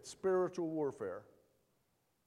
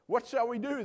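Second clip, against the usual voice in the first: higher, louder anxious plea; frightened servant; 7 semitones higher, 6 dB louder than usual. Acted. Servant asks the prophet in mock panic. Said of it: "the servant asked".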